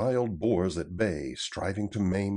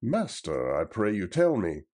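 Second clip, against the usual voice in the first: alarmed cry; 2 semitones higher, 5 dB louder than usual. Acted. Little John to his master, crying out in alarm. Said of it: "cried Little John".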